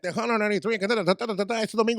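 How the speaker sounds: hyped, rapid-to-stretched DJ patter; radio DJ imitation. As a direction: mimic a DJ over blaring music. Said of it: "mimicking him".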